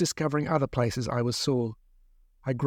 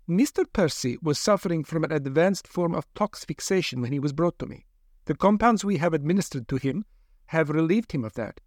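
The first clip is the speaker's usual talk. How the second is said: a lightly voiced, higher doctor, reasoning; hint of a persuasive lab doctor; 3 semitones higher than usual. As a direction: play the coolly reasoning scientist, pitched up. Doctor defends her treatment.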